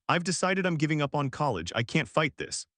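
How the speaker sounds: lightly breaking voice, faked despair; voice cracking. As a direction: let the voice crack a little. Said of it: "My voice cracked".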